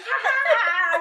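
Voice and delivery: loud, high, drawn-out fake laugh; retold mock laugh. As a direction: belt out a mocking ha-ha-ha. Mimicking mom in retold story.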